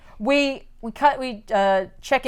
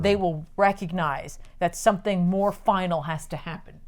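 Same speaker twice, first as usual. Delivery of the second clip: softer, lower, lightly acted scheming; measured villain speech; 4 semitones lower, 8 dB quieter than usual. Villain explains his plan to doubtful followers, quietly measured.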